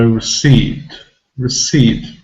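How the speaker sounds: "receipt" with re almost swallowed; near-silent vowel in re, long stressed ee in receipt; barely heard schwa. Shown as a demonstration. Teacher showing the weak syllable, schwa almost dropped. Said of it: "We almost don't hear even, uh, any schwa sound".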